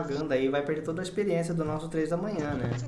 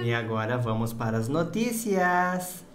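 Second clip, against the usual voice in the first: voz de robô do Treta News; 5 semitones lower, slower than usual. Retold or imitated. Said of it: "Parece ser do Treta News".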